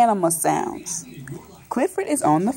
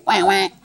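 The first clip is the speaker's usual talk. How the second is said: short imitation quacks, pitched down; duck quack; 4 semitones lower than usual. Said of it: "The duck says what?".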